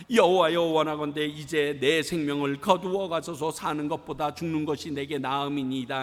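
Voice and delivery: loud burst on the opening cry, then settling; acted indignant plea; angry Jonah praying. Jonah begging God to take his life, acted anger. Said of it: "요나가 매우 싫어하고 성내며".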